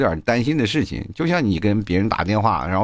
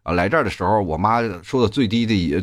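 usual speaking voice

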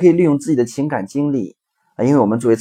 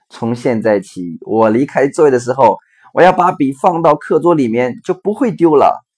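daughter's idea; 2 semitones higher, 5 dB louder than usual. Retold or imitated. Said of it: "女儿说".

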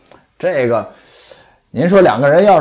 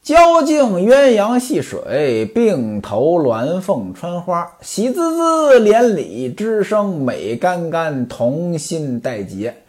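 put-on slow, measured chant of old verse; classical verse recitation; slower than usual. Shown as a demonstration. Storyteller reciting the novel's verse to listeners, slow and measured. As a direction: recite each line slowly like a storyteller reading classical verse. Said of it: "原文呢，写了这么一段儿，我给您说一说".

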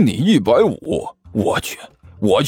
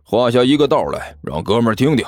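low, dismissive monk; mildly sneering dare; pouting; 4 semitones lower than usual. Acted. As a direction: challenge the rival through a slight pout. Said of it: "那个和尚撇着嘴说道".

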